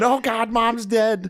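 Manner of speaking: high, slow, laughing wail; panicked wail. Retold or imitated. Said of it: "And then".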